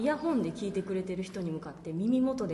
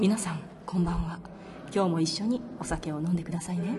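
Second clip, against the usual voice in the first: right in your ear; 2 semitones lower than usual. Shown as a demonstration. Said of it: "みんな耳元で囁くシリーズ行きましょうか".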